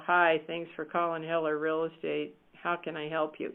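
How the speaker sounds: low-energy greeting, pitch dropping; bored phone greeting. Shown as a demonstration. Trainer mocking a dull receptionist greeting, listless. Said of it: "You can't answer the phone like that".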